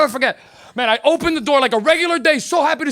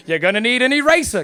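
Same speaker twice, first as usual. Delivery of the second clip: British TV presenter announcing a craft; put-on British show-host patter; British accent; 2 semitones lower than usual. Comic mimics Art Attack host listing materials, British accent. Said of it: "a show with a British guy".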